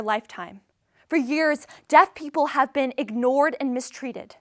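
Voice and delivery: measured book trailer narration; announcer read. Acted. Introducing a memoir to an audience, announcer read. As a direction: present it clearly, like a promo.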